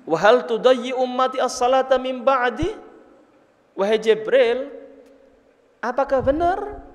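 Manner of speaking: mildly shocked questioning, pitch lifted a little; Nabi Muhammad, taken aback. Retold or imitated. The Prophet asks Jibril about his people, mildly shocked. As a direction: retell an astonished, earnest question. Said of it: "Kaget tuh Nabi Muhammad".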